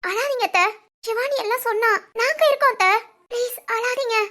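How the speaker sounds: distressed, urgent consoling; concerned pleading. Acted. Daughter-in-law to weeping aunt, concerned pleading. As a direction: plead with her gently to stop crying. Begs crying aunt not to cry.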